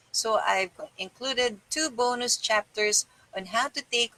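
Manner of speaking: measured, even book-reading voice; calm narrator reading a self-help book; audiobook reading. Acted. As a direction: read the chapter to your listeners steadily. Reads a self-help book aloud.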